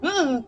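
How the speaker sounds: short, loud "ah" of alarm; sudden frightened exclamation; startled gasp-cry. Real, not acted. Startled by danger in game.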